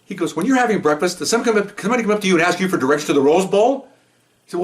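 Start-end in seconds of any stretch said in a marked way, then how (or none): 0.4-3.9 higher-pitched, mock-indignant grilling; gruff partner. Cop interrupted at breakfast challenges a lost driver, mock gruff. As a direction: imitate a gruff cop taking offense. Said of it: "he's really gruff".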